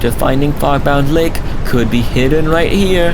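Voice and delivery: high, eager character voice; excited game character. Acted. Partner to partner about the secret of Fogbound Lake, excited. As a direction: lift it high and lively, full of discovery.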